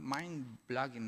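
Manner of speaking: "mind-blogging" said very slowly and hesitantly; unsure English word. Real, not acted. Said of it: "no sé si lo estoy diciendo bien". ("mind-blogging" pronunciado lento e inseguro, en inglés)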